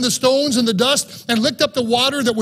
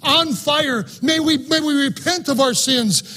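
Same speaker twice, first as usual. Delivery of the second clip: higher, earnest cry to God; desperate prophet's prayer, pitched up; Elijah pleading in prayer; 4 semitones higher than usual. Acted. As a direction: beg God for rain like the prophet. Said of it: "Elijah did this".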